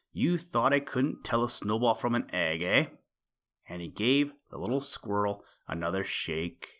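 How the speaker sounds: a touch of a menacing villain voice; lightly voiced mean owl. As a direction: gloat over the captured squirrel. Owl threatens the squirrel.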